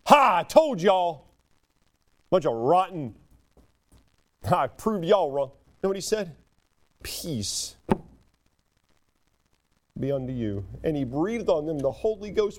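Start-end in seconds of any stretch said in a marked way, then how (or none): 0.1-5.5 slow, louder I-told-you-so; mock gloating. Preacher imagining a gloating Jesus, mock gloating. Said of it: "and what did he say?". 7.0-10.7 much softer, low and tender; gentle peace. Acted. Preacher voicing Jesus greeting deserters, tender.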